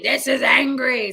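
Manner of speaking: slow, hammed-up anger; bad-actor angry. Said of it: "they just go".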